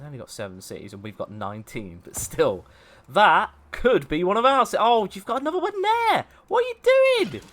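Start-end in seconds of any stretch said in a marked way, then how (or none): 3.1-7.4 loud protest climbing to a high squawk; outraged. Real, not acted. Player watching a rival take city spots, outraged. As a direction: rise into high-pitched indignation.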